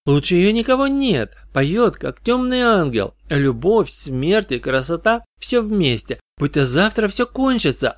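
put-on high, dreamy young fan; rapturous goth teen worship; adoring goth girl. Goth girl praising the singer.

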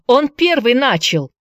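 high, loud protest; boy shouts blaming his brother to the vicar; shouting. Acted. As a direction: yell it in defence. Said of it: "закричал Джеймс".

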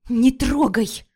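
sharp alarmed cry; near shout. Acted. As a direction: stop her hand with your voice. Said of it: "Почти закричала я". (резкий испуганный окрик)

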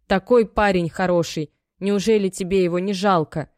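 mother reproaching her over the husband; shaming mother. Acted. Мать стыдит дочь. (мать стыдит дочь, громче)

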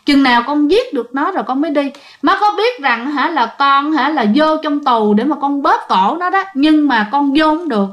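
đọc lời con khóc lóc, van nài nhẹ; retold tearful plea. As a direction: voice of a wronged dead son, a touch of crying. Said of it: "Thì em H này khóc, khóc rất là nhiều".

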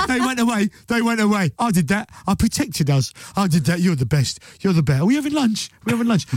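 pleased dog, chattering excitedly; proud, needy dog seeking approval; eager dog. Acted. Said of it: "But a dog will go".

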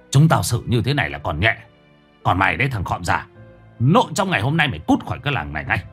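a fast scornful villager threatening; angry villager. Acted. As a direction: spit the threats out quickly. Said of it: "Có tiếng người làng cất lên".

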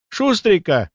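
high-pitched exclamation of mild horror; horrified. A narrator's reading. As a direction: blurt it out in alarm. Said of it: "ужаснулась Настя". (с лёгким ужасом)

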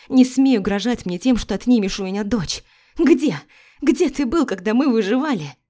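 wife screaming at her ex not to touch her family; hysterical screaming. Acted. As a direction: scream every word at him, beside yourself.

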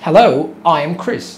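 slow and clear, each word separate; slow demo. Shown as a demonstration. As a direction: model line said slowly for learners. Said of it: "ممكن تقول".

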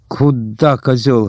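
plain reading voice

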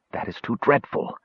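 soft, horrified near-whisper; hushed in horror. A narrator's reading. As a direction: breathe it out in dread. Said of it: "he whispered".

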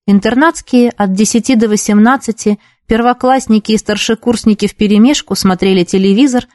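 ordinary delivery, nothing marked

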